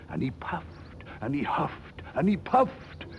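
from breathy puff up to high, loud and slow; building blow. A narrator's reading. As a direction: let the huffing swell to a big slow blow. Wolf blowing, building up.

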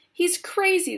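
high-pitched alarmed cry; frightened shouting. A narrator's reading. Parents join the chorus about Wonka, frightened shouting. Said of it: "they shouted".

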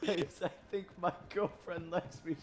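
spot-on teasing mimicry of a friend; mocking imitation. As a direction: parrot a friend's announcement to tease him. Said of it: "That's exactly what I sounded like".

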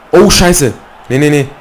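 high, loud panicked nee nee; panicking gamer. Real, not acted. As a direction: yelp in rising panic. Gamer about to concede a goal.

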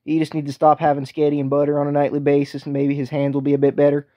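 a light put-on country accent, easygoing. The speaker sizing up running backs for the host, light put-on accent. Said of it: "you gained quite the accent there, Tack".

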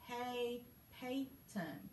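slow, choppy word-by-word reading with long gaps; robot reading. Shown as a demonstration. Teacher showing the class how not to read, in a slow choppy robot voice. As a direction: read it stiffly, one word at a time, like a mild robot. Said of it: "you're not gonna talk like that".

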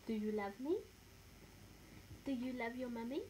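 cooing up at the dog with a rising lilt. Real, not acted. Owner cooing to her guide dog, sing-song baby talk.

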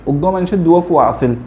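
Chittagonian example sentence; demonstrating Chittagong regional speech; Chittagong dialect. Shown as a demonstration. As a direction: say it as Chittagong locals do. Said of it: "চট্টগ্রামের মানুষরা বলে".

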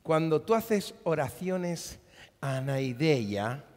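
usual speaking voice

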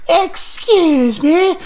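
high, slow, loud Scottish disbelief; mock Scottish accent. Kernish players, stunned Scottish-accented reply. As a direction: drag it out in a Scottish brogue. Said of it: "with Scottish accents goes".

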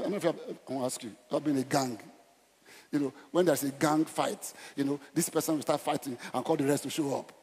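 usual speaking voice

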